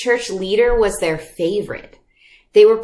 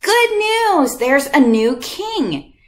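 rally the whole town to listen; herald's call; 8 semitones higher than usual. Retold or imitated. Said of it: "they would say".

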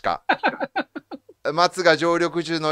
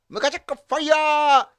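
japanese gyaru slang; 7 semitones higher than usual. Shown as a demonstration. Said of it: "ギャル語でございます".

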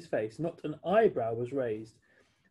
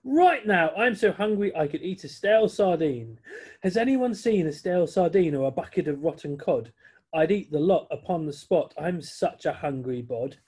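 excited, loud bird voice, slowing at the end; a greedy pelican craving fish; hungry pelican; 3 semitones higher, 5 dB louder than usual. Acted. Pelican tells the friends he's starving, loud and eager.

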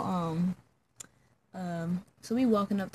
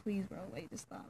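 retold weak plea; 12 dB quieter than usual. Retold plea during unwanted kiss.

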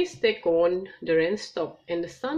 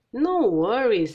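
relaxed kangaroo dad; 4 semitones higher, 6 dB louder, slower than usual. Acted. Mister Kangaroo, Australian host.

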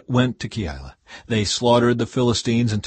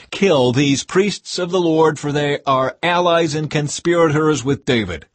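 commanding shout; 6 semitones higher, 6 dB louder than usual. A narrator's reading. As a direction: thunder the command to the guards. King ordering the slaughter.

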